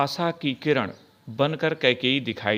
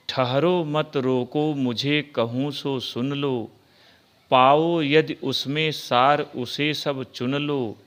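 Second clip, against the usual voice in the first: slow, measured recital of Hindi verse; धीमी, लयबद्ध कविता पाठ; poem recitation; slower than usual. Acted. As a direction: recite each line slowly and evenly, like reading verse to a class.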